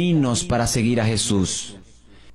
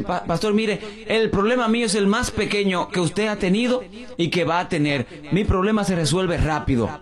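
lightly voiced woman; 8 semitones higher than usual. Pastor lightly mimics the woman insisting her problem is small. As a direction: sweet-talk the pastor that it's quick.

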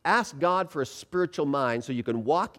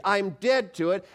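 raised, slow, emphatic declaration; enthusiastic; 4 semitones higher than usual. Shown as a demonstration. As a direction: declare it with full conviction. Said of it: "with enthusiasm".

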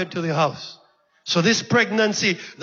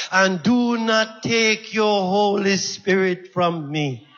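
earnest begging; slower than usual. Acted. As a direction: stretch the plea and let the last word drop away. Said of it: "I am begging you".

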